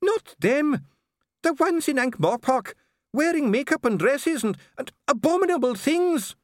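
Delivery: high, loud, raging voice; furious ranting dwarf. Acted. Dee rants at the king about dwarfs in Ankh-Morpork, high and furious. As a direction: rant with rising disgust.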